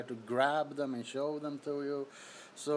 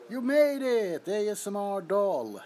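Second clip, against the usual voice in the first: excited greeting; 4 semitones higher, 5 dB louder than usual. Real, not acted. Greeting chat viewer excitedly.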